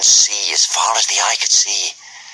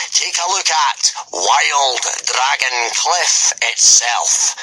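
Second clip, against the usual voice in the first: booming Gobber; 6 semitones higher, much slower than usual. A narrator's reading. Gobber addressing the boys at full volume, booming. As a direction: boom it out like a hearty Viking teacher.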